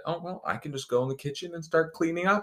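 a hint of an eager helper escaping the table; cheerful fake helpfulness. Acted inner voice, fast, high.

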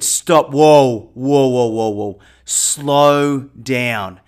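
firm stop. Retold or imitated. Stopping panicked friend on cliff.

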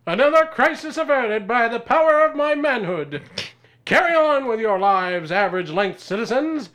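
heroic proclamation. Acted. Superhero proclaims grandly.

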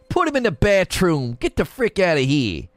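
put-on hammy Italian mobster accent; Italian mob voice. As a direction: give orders like a pretend Italian mob boss. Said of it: "say it in your Italian mob voice".

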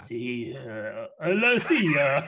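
slow, mock Belgian-accented goodbye, breaking into laughs; half-hearted Van Damme accent, laughing; Van Damme accent attempt. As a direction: try a Jean-Claude Van Damme accent and crack up. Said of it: "Say it like Jean-Claude Van Damme".

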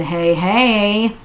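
eager wedding-day voice; excited bride. Acted. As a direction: squeal it like a giddy bride. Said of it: "she said".

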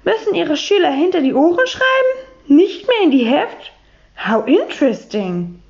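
a hint of an English lady speaking broken German; light English accent. Miss Brightwhistle, amused retort.

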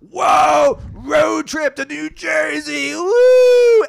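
high, loud, hooting road-trip cheer; mock excited whoop. Comedian imitating a passenger screaming about the trip, high loud whoop. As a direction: whoop it like an over-the-top party guy. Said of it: "He goes".

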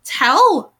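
high-pitched, eager questioning; happily excited. A narrator's reading. Blythe begging romantic news, happily excited. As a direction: pepper them with delighted questions. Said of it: "Blythe shrieked happily".

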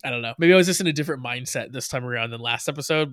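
usual speaking voice

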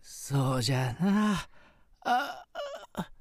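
quavering grateful spirit grandpa; ghost voice. Acted. Ghost grandfather questions woman.

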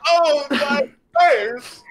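high, drawn-out cartoon agony; mock pained wail. Orc knocked flying by a slap, mock pained. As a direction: wail in hammed-up pain, breaking into a laugh. Orc cries out after blow.

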